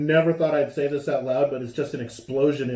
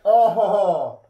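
muffled after choking cough; talking through a napkin; 7 semitones higher, slower than usual. Real, not acted. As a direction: hand covering mouth. Seen 4: Left speaker presses napkin over nose and mouth until about 7s.

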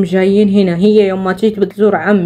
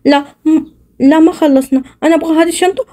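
put-on whiny kid; 5 semitones higher than usual. Child still wants the bag.

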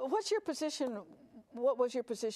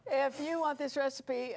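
laughing; 3 semitones higher than usual. Real, not acted. Laughing after tasting dessert.

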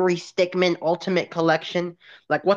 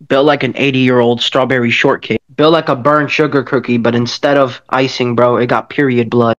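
much louder, lower roasting jeers; 5 semitones lower, 9 dB louder than usual. Acted. Roasting the cartoon character with loud jeers. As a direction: bellow the insults at the screen.

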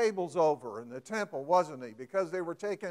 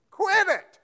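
loud, high shout "Quit it" broken by a laugh; laughing mock shout; 13 semitones higher, 9 dB louder than usual. Preacher repeating the parent's order, laughing shout. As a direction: shout it again while laughing.

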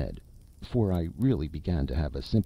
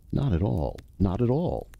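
quick, louder and higher protest; quick denial; 5 semitones higher, 4 dB louder than usual. A narrator's reading. Ghost brushing off the narrator's easy idea, quick and insistent. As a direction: hurry the refusal out. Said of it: "said my companion quickly".

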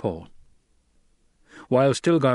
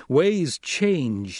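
higher-pitched, emphatic statement; raised, persuasive assertion; pressing; 6 semitones higher, 3 dB louder than usual. A narrator's reading. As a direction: press the point on him. Paul presses Stilgar to accept change.

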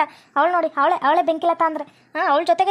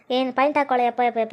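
low-pitched, awed aside; amazed aside; 5 semitones lower than usual. Acted. Onlooker reacting to the rival wife's argument, amazed aside. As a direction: marvel under your voice, sinking lower.

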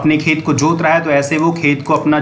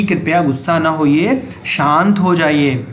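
gentle plea. Acted. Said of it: "तो वो प्यार से".

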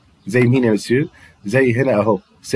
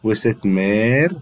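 slow model words; slower than usual. Shown as a demonstration. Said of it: "يبقى سيت دي مؤنثة".

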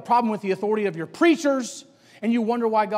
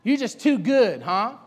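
mild mocking jab; making fun; 2 semitones higher, 5 dB louder, slower than usual. Peers needling Samuel for being too good, mildly mocking. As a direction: needle him with a teasing challenge. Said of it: "Making fun of him".

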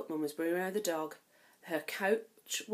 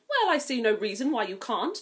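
sly; 3 semitones higher, 6 dB louder than usual. Acted. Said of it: "with a sly smile".

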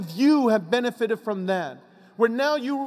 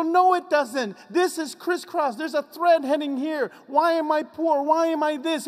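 higher, pained cry of why; anguished complaint to God; 7 semitones higher than usual. Retold or imitated. A person crying out to God in distress. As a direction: plead up at God, distressed and bewildered.

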